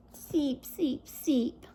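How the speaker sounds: soft sleepy peeps; tired peeping. Acted. Tired babies to Jack, softly peeping. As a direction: peep drowsily. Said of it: "the tired babies finally whispered".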